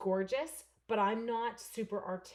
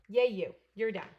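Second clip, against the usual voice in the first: cheer; 7 dB louder than usual. Real, not acted. Cheering finished card.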